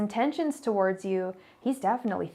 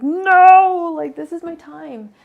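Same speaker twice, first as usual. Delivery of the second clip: retold outburst; 9 semitones higher, 16 dB louder, slower than usual. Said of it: "I was just like".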